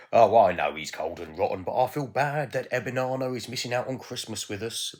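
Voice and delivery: loud, sympathetic relative; a touch of family sympathy; lightly voiced relatives. Relatives talk about Ebenana.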